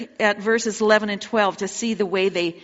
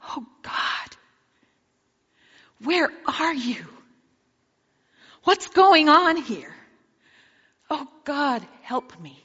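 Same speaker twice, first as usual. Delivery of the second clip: desperate prayer; 4 semitones higher than usual. Pretend. Frightened believer crying out to God in panic, a pleading cry. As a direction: plead with God out of real terror, the middle line cried out. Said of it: "Sometimes all you can say is".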